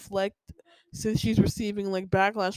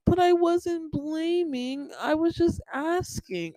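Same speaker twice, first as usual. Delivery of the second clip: imitating mom; 7 semitones higher, slower than usual. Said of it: "she'll say".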